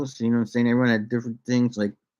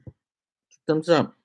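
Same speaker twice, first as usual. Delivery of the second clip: drawn out; 4 semitones higher, much slower than usual. Shown as a demonstration.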